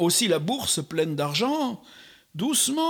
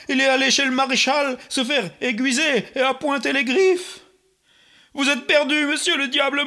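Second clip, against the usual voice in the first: climbing higher and more frantic, ending in a loud breathy cry; panicked pleading; 4 semitones higher, 3 dB louder than usual. Acted. Old woman begs the devil to flee, frantic. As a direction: push him away in mock panic.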